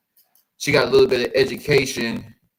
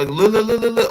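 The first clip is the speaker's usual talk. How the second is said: rising, excited repeated look; 10 semitones higher, 7 dB louder than usual. Real, not acted. Urging the viewers to look, excited. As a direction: point them at it urgently.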